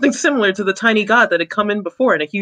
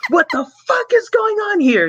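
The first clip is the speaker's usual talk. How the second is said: higher yelled soldier line; yelling army man; 12 semitones higher than usual. Acted. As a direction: bark it like a tiny angry soldier. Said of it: "yelled the tiny army man".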